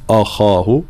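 "أخاه" said wrongly, heavy hamza or thin kha; wrong pronunciation demo. Shown as a demonstration. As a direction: show the mistaken weight in "أخاه". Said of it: "لابد من ترقيق الهمزة، تفخيم الخاء". (نطق أخاه خطأً في التفخيم والترقيق)

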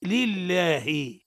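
لله very slow, "lil-laa-hi", long middle vowel; deliberate reading of لله with light l; correct recitation model. Shown as a demonstration. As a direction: draw out لله syllable by syllable. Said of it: "هكذا تقرأ".

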